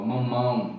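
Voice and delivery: nasal ão in mamão. Shown as a demonstration. Teacher showing nasal mamão. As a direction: say mamão through the nose, mouth barely open. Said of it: "não abre bem a boca".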